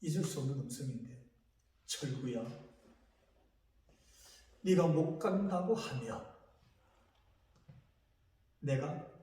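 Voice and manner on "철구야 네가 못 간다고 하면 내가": voice of God calling. Retold or imitated. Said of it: "그때 음성이 들렸어요".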